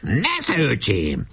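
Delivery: high start, dropping on the second word; taunting cry. A narrator's reading. Barabás cries out with each sand bomb, taunting. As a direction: call it out as you hurl a bomb. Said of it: "minden bombával kiáltott egyet Barabás".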